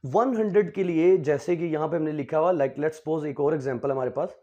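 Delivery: ordinary talk, nothing marked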